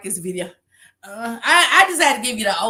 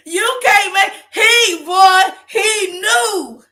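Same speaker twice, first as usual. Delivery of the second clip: high, loud, laughing outburst; laughing shout; 8 semitones higher, 5 dB louder, much slower than usual. Real, not acted. Cracking up while shouting to the chat about the setup. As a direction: burst out hollering at the blunder.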